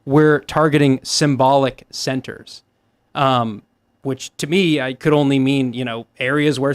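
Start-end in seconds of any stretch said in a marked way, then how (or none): 0.1-2.6 each word pressed out slowly; slow emphatic quote. Shown as a demonstration. Stressing the quote to make a point. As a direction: lean on "We're targeting symbolic centers" word by word. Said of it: "he's explicitly said".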